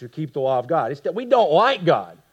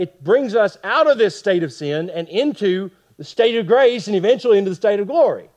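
quick, higher-pitched teaching delivery; talking fast; 5 semitones higher, 4 dB louder than usual. Real, not acted. Teacher summing up the gospel for the class, talking fast. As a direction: move briskly through the point. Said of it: "I'm talking pretty fast".

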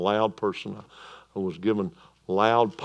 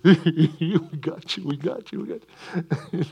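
gloating taunt; 6 semitones higher than usual. Retold or imitated. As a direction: gloat like you've caught him out, laughing. Pharisees gloating over trapping Jesus.

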